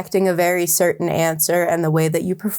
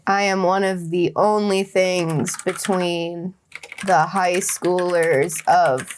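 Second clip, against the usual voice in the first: slow dramatic reading; much slower than usual. Acted.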